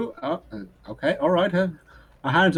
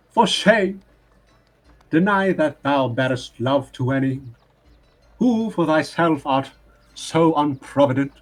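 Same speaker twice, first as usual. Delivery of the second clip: slow, declaiming a sonnet, a bit louder; poem recitation; 3 dB louder than usual. Acted. Bard reciting a sonnet to the family, declaiming. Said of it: "This is a poem".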